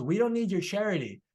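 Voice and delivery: retold wounded-pride retort; angry, prideful. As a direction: imitate a proud father rejecting help. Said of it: "angry, prideful".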